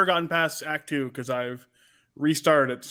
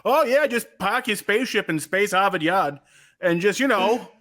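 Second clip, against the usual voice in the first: put-on Boston accent; 5 semitones higher than usual. Host jokingly imagining the character gone full Boston, light mock accent. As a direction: lightly play a Good Will Hunting-style Bostonian. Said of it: "I go Goodwill Hunting".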